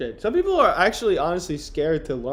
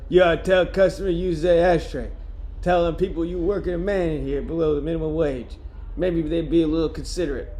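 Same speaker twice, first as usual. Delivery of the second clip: put-on lightly done Boston accent in character; Boston accent attempt; 3 semitones higher than usual. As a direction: complain with a hint of Boston. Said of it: "go back to what I was doing".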